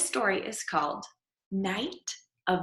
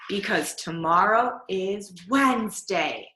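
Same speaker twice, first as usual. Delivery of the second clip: gasping dread. Acted. Boy whispering his fear of Wednesday. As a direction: gasp then unvoiced whisper. Gasp before fearful reveal.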